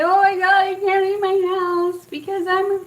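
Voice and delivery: high, strained imitation of panicking; mock freak-out. Caller too anxious to phone the dentist, mock freak-out. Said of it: "I was kinda freaking out".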